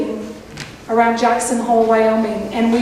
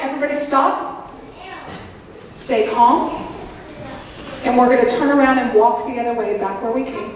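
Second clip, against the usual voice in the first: retold calm command; 3 semitones lower than usual. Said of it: "But very calmly".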